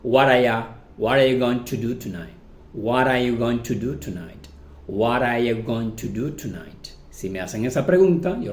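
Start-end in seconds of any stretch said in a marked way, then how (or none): 0.0-0.7 "What are" run together with a tapped t; casual linked "What are ya"; reduced pronunciation. Shown as a demonstration. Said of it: "Cuando lo reducimos, decimos". 1.0-6.9 "What are you" linked with a tapped t; casual linked English in "What are you"; reduced pronunciation. Shown as a demonstration. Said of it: "Cuando lo reducimos, decimos".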